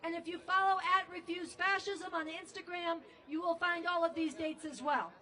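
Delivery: ordinary talk, nothing marked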